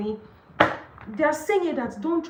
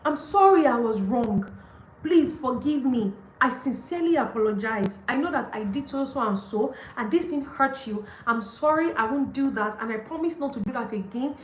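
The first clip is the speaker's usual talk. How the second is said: sincere apology. Shown as a demonstration. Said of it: "Apologize well".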